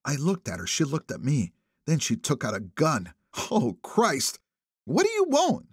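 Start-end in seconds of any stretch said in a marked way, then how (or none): 3.5-5.7 put-on alarmed old woman. A narrator's reading.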